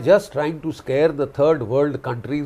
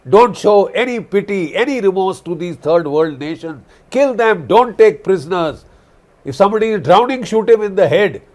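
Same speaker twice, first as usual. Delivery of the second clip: higher, harsh order in a lightly mocking voice; mocking Hegseth; 3 semitones higher, 3 dB louder than usual. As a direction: sneer out a brutal command. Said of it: "you don't sound like a professional soldier".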